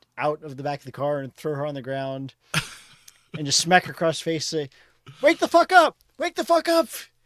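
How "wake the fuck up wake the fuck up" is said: piercing, very loud, very high, shrill scream. Playing a character slapping someone awake: in-character yelling. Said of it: "so you're yelling basically".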